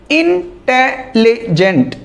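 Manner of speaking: इंटेलिजेंट said slowly, syllable by syllable; इंटेलिजेंट drawn out slowly to count its syllables; slow syllable demo. Shown as a demonstration. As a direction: stretch out इंटेलिजेंट so each syllable is heard. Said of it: "इंटेलिजेंट में चार syllable हैं".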